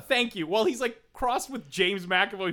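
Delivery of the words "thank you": higher, hammed-up Maine "Thank you"; mock Maine accent. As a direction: put on a jokey Maine accent. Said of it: "that sort of thing".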